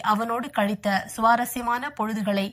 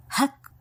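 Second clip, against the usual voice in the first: short higher-pitched gasp of shock; 4 semitones higher, much slower than usual. A narrator's reading. Woman hears of Kishore's death, shocked gasp. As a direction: catch the breath in sudden shock. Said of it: "என்று அதிர்ந்து".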